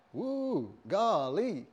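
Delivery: lightly American wowed Adam; a hint of American awe; American exclamation. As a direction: act mildly wowed in an American accent. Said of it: "if you're American".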